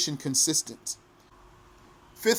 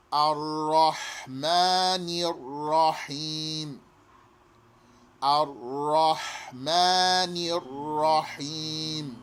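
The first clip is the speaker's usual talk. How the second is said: ra doubled in "Ar-Rahmanir Rahim", chanted slowly; slow recitation; much slower than usual. Shown as a demonstration. Teacher reciting slowly, ra doubled. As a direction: double both ras.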